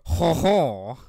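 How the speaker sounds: hammed-up French ho ho, loud and drawn out; mock French. Podcaster teasing French co-host, mock French accent. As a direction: play a cartoon Frenchman laughing. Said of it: "you're, you're French".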